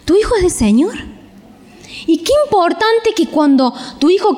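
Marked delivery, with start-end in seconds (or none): 0.0-0.9 a light, higher, reassuring voice of God. Retold or imitated. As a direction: speak as God comforting a parent, pitched up. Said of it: "Dios te dice". (Dios hablándole a un padre, voz más aguda y tranquilizadora)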